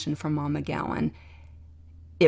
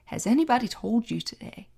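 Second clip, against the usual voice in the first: gently imitating a Southern woman's "anybody" question, higher; light Southern accent; 6 semitones higher than usual. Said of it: "the most Southern accent of anybody".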